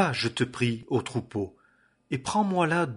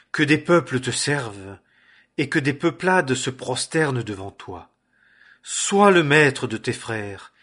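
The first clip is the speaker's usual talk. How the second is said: put-on old father proclaiming a blessing, louder; the aging father blesses his son, louder and solemn; 5 dB louder than usual. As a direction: declaim it like a patriarch's benediction.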